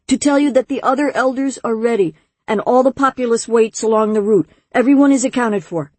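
put-on high-pitched boy reporting dutifully; eager young nephew, reporting.

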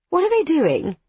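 high, nervous question; quivering voice. A narrator's reading. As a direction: ask it with rising fear. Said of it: "she adds in a quivering voice".

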